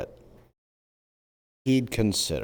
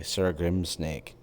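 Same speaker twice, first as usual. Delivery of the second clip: savoring the name; 4 dB quieter, slower than usual. Pretend. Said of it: "That was fun to say".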